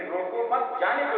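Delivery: روکو مت as one group, then جانے دو rising; روکو مت joined. Shown as a demonstration. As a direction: keep مت with روکو, lift جانے دو. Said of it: "اس کو جانے دے دیا".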